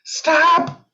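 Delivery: tiny high squeaky stop; squeaky car voice. Pretend. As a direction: squeak it like a brake. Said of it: "your car goes".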